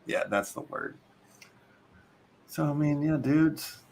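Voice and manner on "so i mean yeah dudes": a touch of Chicago accent. Real, not acted. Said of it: "you slipped back into your Chicago accent".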